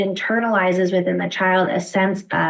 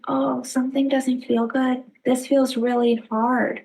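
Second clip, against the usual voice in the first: put-on softer, gentle soothing voice for a crying child; 3 semitones higher than usual. Shown as a demonstration. Parent soothing a crying child, gentle and soft. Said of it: "lowering your voice".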